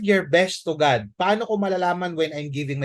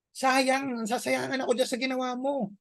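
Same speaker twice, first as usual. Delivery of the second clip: mock indignant complaint; 7 semitones higher, 4 dB quieter than usual.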